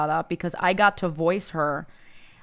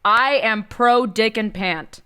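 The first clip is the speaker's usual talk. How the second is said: mock cheer; 3 semitones higher, 5 dB louder, slower than usual. Real, not acted. Cheering the moral of tale.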